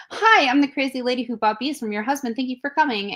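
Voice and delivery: high, over-friendly hello; gushing greeting. Retold or imitated. Greeting the bee seller's wife in the car, gushing.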